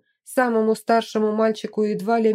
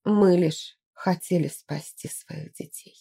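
hoarse; 2 semitones lower than usual. Acted. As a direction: voice cracked and hoarse. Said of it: "она закончила хрипло".

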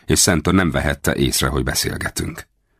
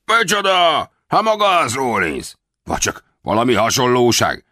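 high, delighted outcry of mock surprise; joyful exclamation; 9 semitones higher than usual. A narrator's reading. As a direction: cry out in feigned delight. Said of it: "örvendezve felkiáltott". (örvendező felkiáltás)

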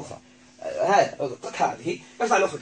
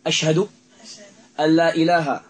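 slow recitation; 8 dB louder than usual. Shown as a demonstration. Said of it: "طيب، هيا".

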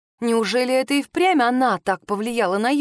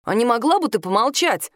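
snapping. Acted. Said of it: "огрызнулся Юст".

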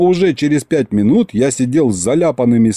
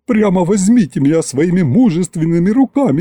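high-pitched melodramatic swoon; pathetic pleading; 6 semitones higher than usual. A narrator's reading. Butler tearing his lace shirt, pathetic pleading. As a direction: plead with overblown passion. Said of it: "патетически вскрикнул Гюнтер".

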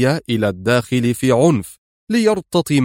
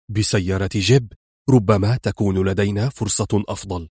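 calm; 4 semitones lower than usual. Acted. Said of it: "قال في هدوء".

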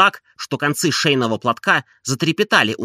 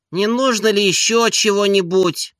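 barely hidden annoyance; 8 semitones higher than usual. A narrator's reading. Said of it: "с худо скрытой досадой".

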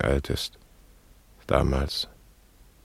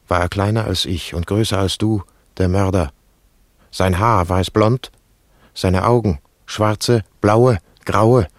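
mounting frantic questions; 4 semitones higher, 4 dB louder than usual. Acted. Frantic questions about the murderer.

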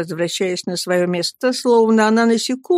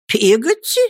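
indignant; 4 semitones higher, 4 dB louder than usual. Acted. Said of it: "с каким-то негодованием".

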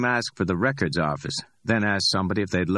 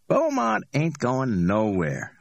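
higher, amused street hustler voice; cocky Ordell; 7 semitones higher, slower than usual. Acted. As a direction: play Ordell, high and pleased with himself.

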